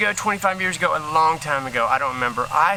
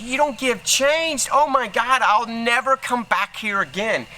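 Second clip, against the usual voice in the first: retold loud complaint; 6 semitones higher than usual. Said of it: "started talking real loud".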